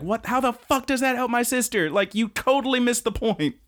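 playing a friend who is upset; mock freak-out. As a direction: squeak it out in disbelief. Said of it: "Konoha freaks out".

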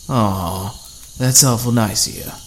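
mock-sweet sarcastic aw. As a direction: fake niceness dripping with scorn. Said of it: "he replied sarcastically".

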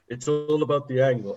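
badly attempted Romanian accent; failed Romanian accent. Imitating arm-wrestling rival, poor Romanian accent. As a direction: have a half-hearted go at a Romanian accent. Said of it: "I can't do a Romanian accent".

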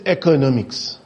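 "economics" said oddly, in puzzled mockery; mocked mispronunciation. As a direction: mimic an odd pronunciation of "economics", querying it. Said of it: "some words and some pronunciations".

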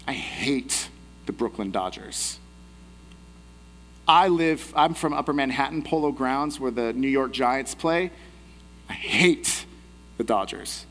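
a low, deliberate jab at a rival fan; taunting soldier. Acted. Soldier taunting Reiben in boat.

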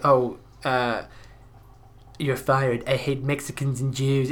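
slow, put-on Donald Trump voice, lightly feminine; a crude send-up of Trump, drawn out; a hammed-up Trump, slightly slowed; crude Trump impression. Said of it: "if I do a really crude impression of it".

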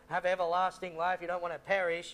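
loud, earnest retold preaching; urgent preaching. Missionary preaching to a dying man, a touch of urgent loud pleading. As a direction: press the verse home to a listener. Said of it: "I'm just trying to preach to this guy".

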